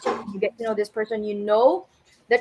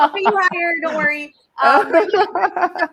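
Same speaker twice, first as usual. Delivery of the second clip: laughing; 9 semitones higher, 7 dB louder than usual. Real, not acted. Laughing after a joke.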